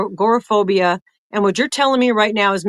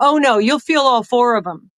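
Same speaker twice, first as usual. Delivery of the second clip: put-on loud voice; 3 semitones higher than usual. Retelling how a nurse interrupted loudly about the needles: imitating a loud interruption. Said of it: "interrupted very loudly in my face again".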